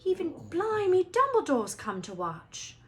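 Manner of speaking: high, loud excited announcement; Fred loudly announcing Dumbledore. A narrator's reading. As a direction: blurt out the surprising news.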